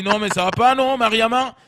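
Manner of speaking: hammed-up local correcting her; indignant correction. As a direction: shout the correction as if scandalised. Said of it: "l'autre, il lui a dit".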